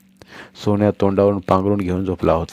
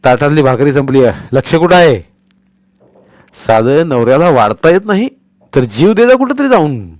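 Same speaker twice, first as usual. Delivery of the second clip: thundering rage; 5 semitones higher, 6 dB louder than usual. Acted. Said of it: "तो कडाडला".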